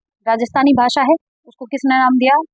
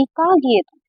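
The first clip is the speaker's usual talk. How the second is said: Bhojpuri dialect example; 2 semitones higher, slower than usual. Shown as a demonstration. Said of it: "कहते हैं ना".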